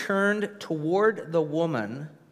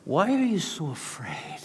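hushed, breathy whisper; whispered question. Acted. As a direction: lean in and whisper it. Jesus asks, whispered.

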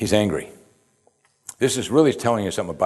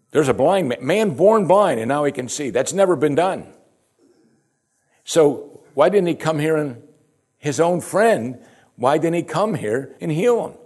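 rising preaching fervour; 6 semitones higher than usual. Real, not acted. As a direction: preach it with growing wonder, pitch climbing. Preacher builds to marvel, question.

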